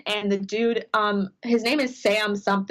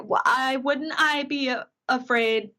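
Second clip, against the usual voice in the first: slow, higher-pitched imitated stammer; retold stammer; 3 semitones higher, slower than usual. Fan recounting her reply when put on the spot, mock stammer. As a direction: act out a hesitant, halting reply. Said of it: "like, stammer of".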